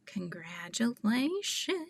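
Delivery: soft breathy hush, drawn out slowly; whispered congratulations. Real, not acted. Streamer whispering congratulations to a viewer. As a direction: whisper it like a secret.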